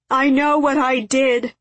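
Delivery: high, loud tearful shout; shouting through tears. A narrator's reading. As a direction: cry it out, sobbing and shouting. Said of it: "he shouted through his tears".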